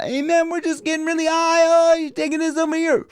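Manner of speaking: high, quick talk on held breath; stoner holding breath. Retold or imitated. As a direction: imitate someone talking with lungs full of smoke. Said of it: "if you've never gotten high".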